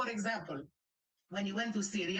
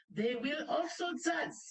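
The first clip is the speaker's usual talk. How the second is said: raised voice, higher and insistent; emphatic shout; 6 semitones higher than usual. Real, not acted. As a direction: hammer the point home. Heated rebuttal to a video.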